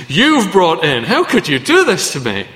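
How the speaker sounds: a hint of wounded outrage; accusing wife. Preacher voicing the wife accusing her husband, mild mock indignation. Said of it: "she says".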